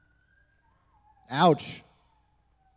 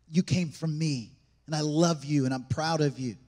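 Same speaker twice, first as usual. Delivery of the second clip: tender blessing; 5 semitones lower, 3 dB quieter than usual. Acted. A father blessing his child, soft and tender. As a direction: lower and softer, intimate.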